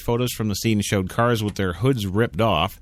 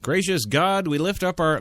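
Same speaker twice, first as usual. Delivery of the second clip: prayer voice; 6 semitones higher than usual. Acted. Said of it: "no, I'm not reading the prayer".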